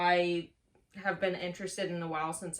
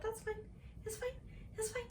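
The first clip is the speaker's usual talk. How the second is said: forced it's fine; 11 dB quieter, much faster than usual. Real, not acted. Brushing off her reading slump.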